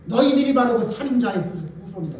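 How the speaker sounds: bold accusation. Retold or imitated. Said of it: "그게 부드러워요?".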